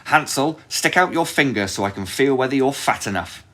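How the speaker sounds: high, loud witch call. Acted. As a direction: call to him from afar. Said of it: "came and called out".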